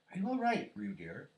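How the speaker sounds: high, loud opening dropping to normal; anxious call. A narrator's reading. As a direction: call out like a worried mother. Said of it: "called Kanga, Kanga anxiously".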